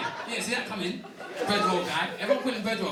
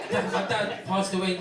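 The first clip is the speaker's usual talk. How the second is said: mock grief again; 4 dB louder, slower than usual. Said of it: "Might as well use his name".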